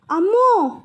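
startled scream at a revolver; frightened cry. Acted. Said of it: "ఎందుకు అలా అరుస్తావు?".

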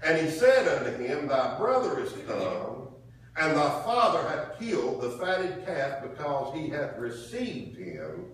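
slow, emphatic Bible reading; scripture reading. Acted. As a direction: read the verse out to the congregation, stretching the phrases. Reads scripture aloud.

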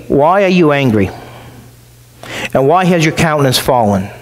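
calm, patient question, voice kept low; patient reasoning. Acted. God patiently asking Cain why he is angry, calm. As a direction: reason gently with a stubborn son. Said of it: "He's trying to reason with him".

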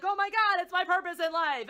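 high, loud gushing revelation; mock epiphany. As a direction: ham up an overjoyed robot finding its calling. Mocking robot's revelation as revolt starts.

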